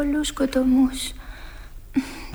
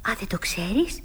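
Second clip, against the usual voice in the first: hushed and secretive; mysterious whisper; 4 semitones lower, 6 dB quieter than usual. Acted. (μυστηριώδης ψίθυρος)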